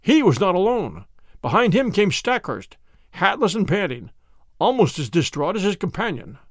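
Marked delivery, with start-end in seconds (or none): none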